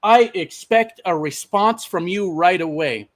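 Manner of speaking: mildly stern, emphatic scolding; retold lecturing. Safety manager to driver over messages, retold lecturing. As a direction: imitate a boss laying down expectations. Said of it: "he starts lecturing me".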